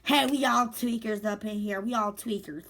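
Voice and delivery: mildly indignant mock protest; ticked off, imitated. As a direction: act out her irritation, half-hearted. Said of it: "the girl was ticked off".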